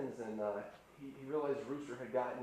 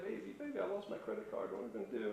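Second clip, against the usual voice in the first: wife's panicked voice; faster than usual. Retold or imitated. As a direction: play the frantic wife losing her card. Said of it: "she's like".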